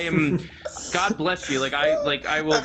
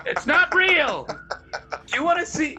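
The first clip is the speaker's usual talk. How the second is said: mock mom; 12 semitones higher than usual. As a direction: spell it out gently but firmly like mom. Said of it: "my mom".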